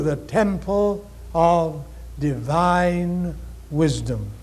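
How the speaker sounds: measured recitation with long pauses between phrases; unhurried sacred recital, drawing out the closing words; slow, solemn reading. Real, not acted. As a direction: read it slowly, giving each line room to sink in. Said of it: "I'll say it slowly".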